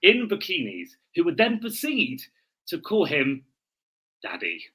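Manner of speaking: storyteller's once-upon-a-time read, swinging pitch; a mock-solemn fairy-tale narration; dramatic reading. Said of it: "do a dramatic reading".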